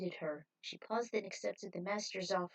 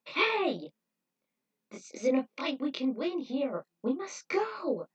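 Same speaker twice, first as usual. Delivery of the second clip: high, loud call to retreat; urgent shout; 5 semitones higher, 4 dB louder, slower than usual. A narrator's reading. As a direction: pull him back from a lost fight. Urging retreat.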